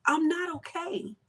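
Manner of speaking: acted anguished prayer. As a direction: cry out to God in pain, slowly. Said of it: "It's okay for me to say".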